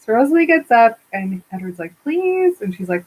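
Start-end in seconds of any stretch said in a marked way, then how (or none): 2.0-2.6 high, drawn-out mock plea; wheedling retold plea; pleading. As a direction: beg on one stretched word. Brother pleads in retold quote.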